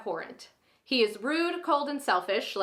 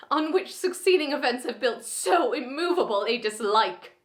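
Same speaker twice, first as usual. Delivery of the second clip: angry, formal refusal of a proposal; Lizzie Bennet, upset. Acted. Heroine refusing Mister Darcy's insulting first proposal, upset and angry. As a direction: play an indignant heroine turning down a suitor, lightly heightened. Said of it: "Lizzie is very upset during this".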